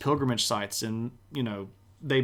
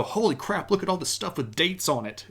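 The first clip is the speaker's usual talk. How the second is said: a higher, thrilled exclaim of discovery; excited discovery; 4 semitones higher than usual. Retold or imitated. Historian finding dated documents, thrilled exclaim. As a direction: gasp it out like finding treasure.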